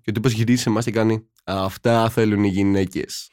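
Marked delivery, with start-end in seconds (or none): 1.4-3.3 slow, drawn-out boast; mildly mocking, slow quote; imitated smug guy. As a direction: stretch it out like a self-satisfied lad. Imitates the boy's smug line.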